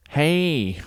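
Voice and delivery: high, brash mock American call. Loud obnoxious American tourist.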